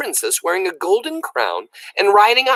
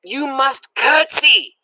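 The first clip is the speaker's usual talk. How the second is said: slow, high, loud command; stern loud repeat; shouted order; 10 semitones higher, 3 dB louder, slower than usual. A narrator's reading. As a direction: bark it at a deaf girl. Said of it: "shouted Louise".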